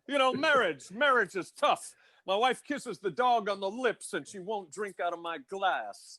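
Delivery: lightly voiced put-upon comic; grumbling no-respect comic, lightly done; Rodney impression. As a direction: do a hint of an old-school one-liner comedian. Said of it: "Bring, bring me Rodney".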